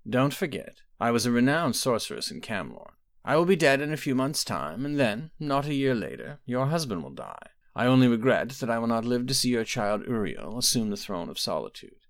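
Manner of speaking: a hint of a knowing old sorceress; mother calmly probing her daughter, lightly voiced; aging mother. Quintilla foretells deaths.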